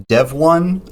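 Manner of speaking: "Dev one", second part like the number; proper pronunciation. Shown as a demonstration. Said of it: "pronounced one like the number".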